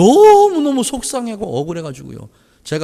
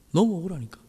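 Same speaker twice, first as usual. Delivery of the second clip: softer, 너무 said lightly with a fall; soft echo; 8 dB quieter than usual. Shown as a demonstration. Pastor repeating himself to the congregation, soft echo. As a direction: murmur 너무 억울하니까 back.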